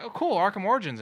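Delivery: high, loud, enthused reaction; retold excited exclamation; excited fans. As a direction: imitate fans cheering the news. Fans react happily to news.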